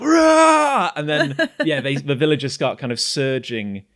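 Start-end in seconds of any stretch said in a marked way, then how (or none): 0.0-0.9 high, loud sustained war cry; full-throated high roar; battle scream. Acted. Villager hoists a barrel, high screamed battle roar. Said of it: "picks up a barrel and she's like".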